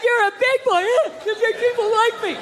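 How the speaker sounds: mock teacher praising a child; patronizing praise. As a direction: pat a kid on the head with your voice.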